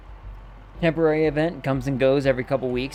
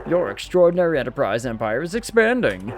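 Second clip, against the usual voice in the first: salesman voice. Acted. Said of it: "partial salesman, uh, voice attitude that I gave him".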